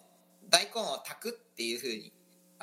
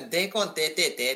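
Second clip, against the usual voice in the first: Okayama dialect; 3 semitones higher than usual. Shown as a demonstration. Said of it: "岡山弁だと".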